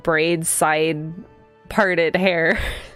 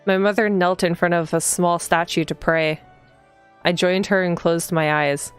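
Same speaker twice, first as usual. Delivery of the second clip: read-aloud narration. A narrator's reading. Player reading the heroine's morning greeting aloud, even narration. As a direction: read the game text evenly, unhurried. Reads the game's text aloud.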